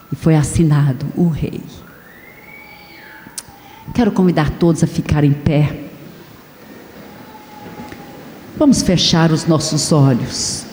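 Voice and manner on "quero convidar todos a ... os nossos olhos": altar call. Acted. Preacher inviting the standing congregation to confess, hushed appeal. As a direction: draw the congregation in gently.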